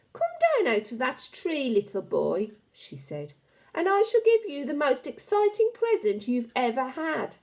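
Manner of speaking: a hint of a sly, coaxing witch; lightly voiced witch. Witch luring the boy from the tree, lightly coaxing. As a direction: coax the boy down, sweetly sinister. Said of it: "Her voice had a curious rasping quality".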